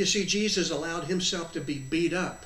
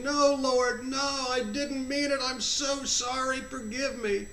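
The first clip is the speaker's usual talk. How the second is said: mildly acted begging, pitched higher; pleading apology; 6 semitones higher, slower than usual. Clinging to his feet begging forgiveness, pleading. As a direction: plead for mercy in a high, sustained voice.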